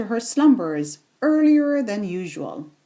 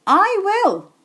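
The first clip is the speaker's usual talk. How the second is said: much higher, louder cat voice; a greedy cat purring yes please; eager cat voice; 9 semitones higher, 4 dB louder than usual. Acted.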